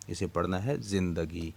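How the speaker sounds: ज़िंदगी with a zer under ज़े and a jazm on नून: zin-da-gi; correct pronunciation. Shown as a demonstration. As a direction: say ज़िंदगी as zin-da-gi, not zan-da-gi. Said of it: "ये ज़िंदगी नहीं पढ़ना". (ज़िंदगी को ज़िन्-दगी पढ़ें)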